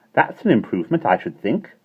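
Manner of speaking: tart satisfaction. A narrator's reading.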